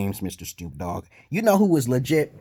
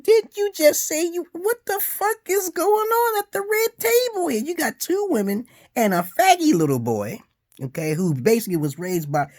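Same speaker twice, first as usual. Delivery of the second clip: shrill-high mocking outrage, louder; incredulous high yell; 4 dB louder than usual. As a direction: squeal the disbelief. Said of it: "I'm like".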